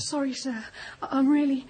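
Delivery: tearful, halting apology; crying. Acted. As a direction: apologise while trying to stop crying. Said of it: "please stop crying".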